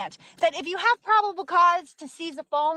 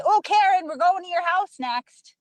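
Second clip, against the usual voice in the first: higher, louder mock taunt; 5 semitones higher, 4 dB louder than usual. Imagined confrontation with Karen, mock taunting. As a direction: call out to her teasingly, pitched up.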